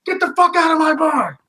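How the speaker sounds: furious barman shouting at intruders; shouting bartender. Acted. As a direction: roar him out of the bar. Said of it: "The bartender's just shouting".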